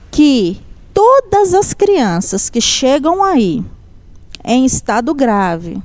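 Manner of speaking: slow, deliberate relayed message from God; solemn prophecy. Retold or imitated. Church sister relays God's message to a mother, slow and solemn. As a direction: deliver it phrase by phrase, with weighty pauses.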